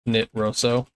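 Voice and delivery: "Nit Rosso" split in two, slowed, rolling the second part; imitating how Aussies say "Nit Rosso"; Aussie pronunciation. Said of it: "The Aussies say Nitroso".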